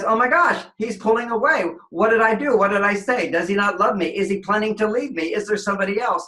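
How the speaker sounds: mock panic. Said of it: "she panics".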